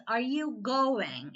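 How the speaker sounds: "going" drawn out slowly; stress on going. Shown as a demonstration. Teacher explaining the question is about the verb, stress on going. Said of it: "the question is going to".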